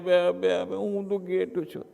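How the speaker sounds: loud crying bleat. Acted. Cub crying to the big lion, very softly. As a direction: sob it like a lost lamb. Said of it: "હજી જોર જોરથી રડે".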